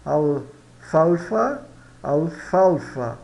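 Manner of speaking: "Alfalfa" very slow, syllable by syllable; F pronunciation model. Shown as a demonstration. Teacher modelling the letter F, slow pronunciation. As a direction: stretch "alfalfa" out slowly with clear F sounds. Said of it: "se pronuncia como no português".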